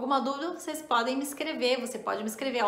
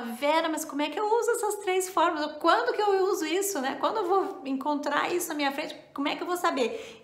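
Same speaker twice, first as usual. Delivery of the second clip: imitating a puzzled student; 5 semitones higher, faster than usual. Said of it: "E aí você fala".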